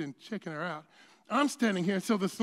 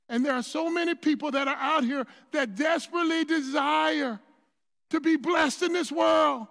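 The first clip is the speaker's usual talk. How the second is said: full-force preaching; 6 semitones higher, 8 dB louder than usual. Acted. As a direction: preach it, drawing out the words and building.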